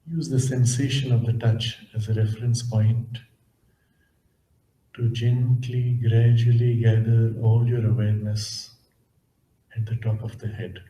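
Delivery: measured, calm instructions, leaving space between phrases; guided meditation. Acted. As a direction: gently guide listeners inward, unhurried.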